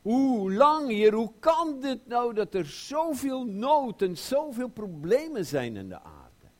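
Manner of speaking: high, loud complaint to God; loud pleading lament; crying out. Acted. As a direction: cry out against the suffering. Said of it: "Hij zegt".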